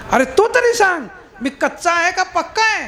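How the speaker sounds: pleading question. Acted. Namdev's plea repeated.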